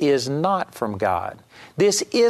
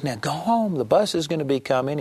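sweet coaxing. Retold or imitated. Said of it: "she was real sweet to this dog".

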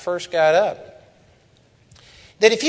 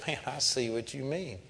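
much softer, subdued imitation; stopped short, retold; 12 dB quieter than usual. Angry father conceding to the preacher, acted subdued. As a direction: drop right down, as if conceding. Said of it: "it just stopped him".

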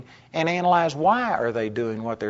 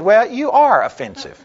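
higher, louder blunt comeback; retold retort; 8 semitones higher, 6 dB louder than usual. Preacher snaps back at the critic who rebuked him, higher and louder. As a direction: fire it straight back at him.

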